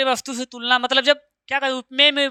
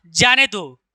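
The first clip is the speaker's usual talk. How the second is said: जाने दो set apart after a break, falling at the end; जाने दो as its own falling phrase; separate phrase after comma; 2 semitones lower, slower than usual. Shown as a demonstration. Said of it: "यहाँ लगा दो कामा".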